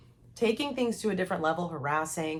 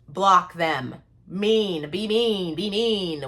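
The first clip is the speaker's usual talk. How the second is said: firm, louder command to cut him off; insistent louder advice to a friend; emphatic louder urging; 6 dB louder, slower than usual. Real, not acted. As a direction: push her hard to block him.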